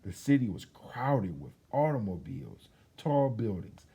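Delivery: put-on lively storybook reading for children; story narration. A narrator's reading. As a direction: tell it like a bedtime story to kids. Reads picture book aloud.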